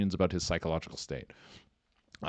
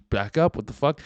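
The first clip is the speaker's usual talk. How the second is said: higher and louder, indignant; mock outraged gangster; 6 semitones higher, 6 dB louder than usual. Retelling the fake gangster's reply to the filmers, outraged. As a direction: throw it back at them, offended. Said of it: "And he goes".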